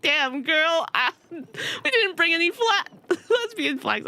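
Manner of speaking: quoted through giggles; laughing quote. Retold or imitated. The volunteer apologising, said through laughter.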